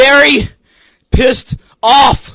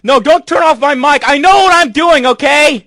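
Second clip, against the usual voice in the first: angry protest; 4 semitones higher than usual. Real, not acted. Arguing with dad over the mic.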